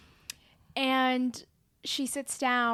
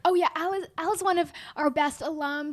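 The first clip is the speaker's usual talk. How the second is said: higher-pitched, gushing quote of a proud dean; doting praise; 3 semitones higher than usual. Retold or imitated. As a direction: play a dean fondly talking up a favorite. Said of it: "everyone is doting on Al".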